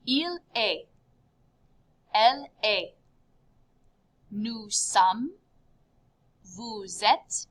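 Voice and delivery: clear, careful teacher recitation; slow classroom recitation with pauses; teacher modeling. Shown as a demonstration. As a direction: model each form slowly for learners. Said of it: "the conjugation goes like this".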